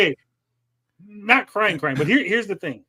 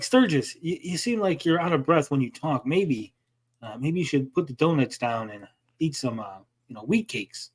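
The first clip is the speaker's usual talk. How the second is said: fake concern; 4 semitones lower, 3 dB quieter than usual. Shown as a demonstration. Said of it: "I'm saying it like it sounds nice".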